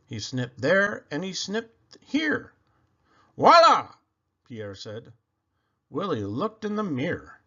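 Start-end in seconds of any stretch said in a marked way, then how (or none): 3.4-3.9 high, loud triumphant reveal; proud flourish. A narrator's reading. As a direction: present it like a masterpiece. Pierre presents haircut.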